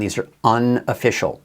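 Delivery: "unofficial" set apart for emphasis; stress on UNOFFICIAL. Real, not acted. Forecaster reminding viewers about reported totals, stress on "unofficial". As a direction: give "unofficial" deliberate weight. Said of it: "I wanna stress the word unofficial".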